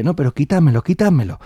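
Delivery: high, pressing repeats; insistent pleading. Acted. Old woman overrides the young men's warning, insistent pleading.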